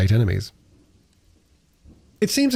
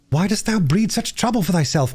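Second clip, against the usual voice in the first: Gascoigne, lightly voiced; 9 semitones higher than usual. A narrator's reading.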